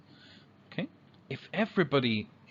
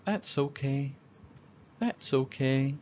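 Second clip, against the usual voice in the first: forgiving reply; 3 semitones higher than usual. Shown as a demonstration. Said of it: "people will say".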